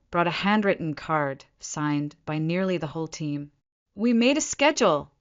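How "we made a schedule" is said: higher, gently proud announcement. A narrator's reading. Coworker showing the patient a visiting schedule, proud. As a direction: announce it with pride, pitched up. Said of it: "she said proudly".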